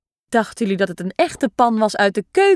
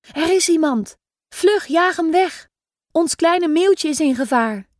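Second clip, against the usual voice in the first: alarmed call; 4 semitones higher than usual. Pretend. Playing alarmed mother gull.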